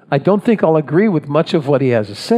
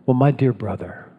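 gentle, courteous address without any sanctimony; kindly, measured opening to an adversary; respectful address. Retold or imitated. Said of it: "he'll say something like this".

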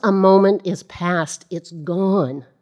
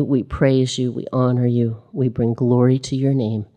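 closing prayer; 3 semitones lower than usual. Acted. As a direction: pray it low and sincere, without hurry.

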